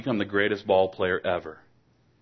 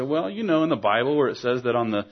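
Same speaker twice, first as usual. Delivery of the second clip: put-on know-it-all child. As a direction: play the child proud of his answer. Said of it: "and he said".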